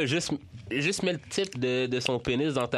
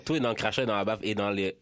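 quick low repeat, rattled off; fast; 3 semitones lower, faster than usual. Shown as a demonstration. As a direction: rattle off the tip faster. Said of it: "je vais vous donner un truc".

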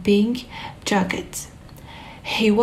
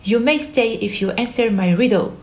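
fast Hatter voice; 3 semitones higher, faster than usual. Acted. Hatter continues.

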